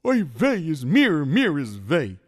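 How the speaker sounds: wailing Yiddish lament, slow and loud; Yiddish accent. Acted. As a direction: moan it like a worried schlemiel. Story figure laments.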